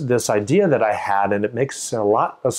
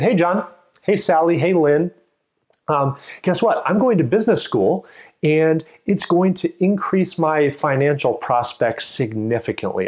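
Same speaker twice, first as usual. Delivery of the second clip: bright, higher, eager news to friends; eager announcement; 3 semitones higher than usual. Shown as a demonstration. Teacher playing someone telling passersby good news, eager. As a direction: call out to friends like you've got big news.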